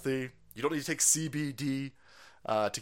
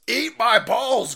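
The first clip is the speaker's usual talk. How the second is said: slow defiant taunt; 8 semitones higher, 9 dB louder, much slower than usual. Real, not acted.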